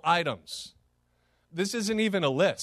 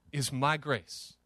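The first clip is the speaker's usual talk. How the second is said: soft; 3 semitones lower, 4 dB quieter, slower than usual. Acted. God's words, dropped softly.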